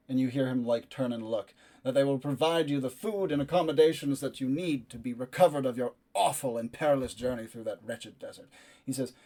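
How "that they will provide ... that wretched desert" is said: loud, not tender. Acted. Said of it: "loudly enough to be heard. It's not tender and soft".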